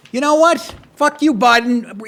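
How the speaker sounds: tough Texan governor. Pretend. Host voicing what the governor should say, lightly defiant. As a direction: bark it like a fed-up governor. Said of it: "he should be out there going".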